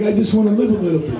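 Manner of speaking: whiny plea. Retold or imitated. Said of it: "And I was like".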